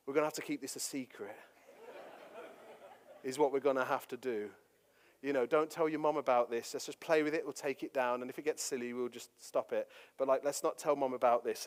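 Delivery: dad hatching a secret with his sons, hushed; conspiratorial. Retold or imitated. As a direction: lean in and keep it between the boys.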